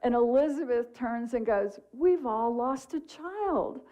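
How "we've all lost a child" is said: brightly smiling, drawn out and higher; joyful, smiling. Retold or imitated. Elizabeth answers the random man at the coffee shop, joyful and smiling. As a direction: say it slowly through a happy smile. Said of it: "with this beautiful smile and all this joy".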